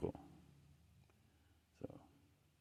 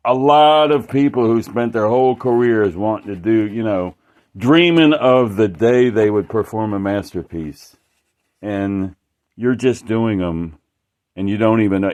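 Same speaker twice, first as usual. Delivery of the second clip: retold insult; 6 dB louder than usual. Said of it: "It, like, he was pissed".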